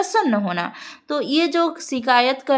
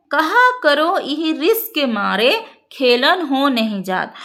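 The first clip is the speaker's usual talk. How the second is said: verse recitation. Shown as a demonstration.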